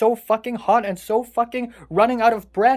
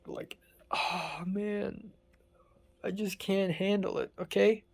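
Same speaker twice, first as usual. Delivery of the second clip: slow, breathy despairing whisper; 8 dB quieter, slower than usual. Real, not acted. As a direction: breathe it out, drained. Overwhelmed, sinking into despair.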